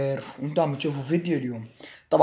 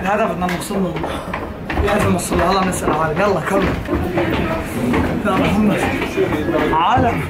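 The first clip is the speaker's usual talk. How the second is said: out of breath; 4 semitones higher than usual. Real, not acted. Near the top of stairs.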